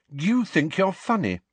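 high, icy challenge; cold. A narrator's reading. Lily confronts James over his bullying, cold. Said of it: "she said coldly".

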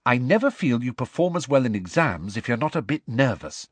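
mildly hearty reassurance. Acted. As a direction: cheer on a nervous friend. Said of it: "said Hermione heartily".

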